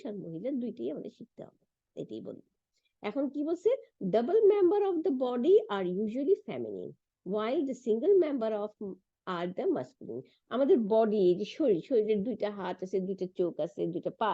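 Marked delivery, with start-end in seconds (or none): 4.2-10.2 slow, word by word English reading; slow textbook reading. Shown as a demonstration. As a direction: read the book aloud to the class slowly. Reads English textbook passage. (ধীরে ধীরে বই থেকে পড়া)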